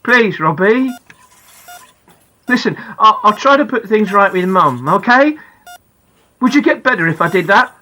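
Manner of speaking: desperate father. Acted. Father begs comatose son.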